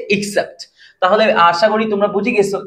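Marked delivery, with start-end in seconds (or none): 0.1-0.6 অ্যাকসেপ্ট said as ik-sept with a short i; short i at the start of অ্যাকসেপ্ট; except demo. Shown as a demonstration. Teacher shows students অ্যাকসেপ্ট as except. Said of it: "ব্যতীত অর্থে বলি তাহলে হচ্ছে".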